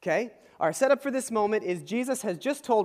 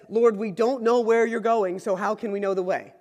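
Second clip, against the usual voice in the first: rational Thomas; 5 dB louder than usual. Retold or imitated. Thomas questions Jesus about the way, insistently rational. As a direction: spell out the confusion, louder at the start. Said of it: "who's very rational, says".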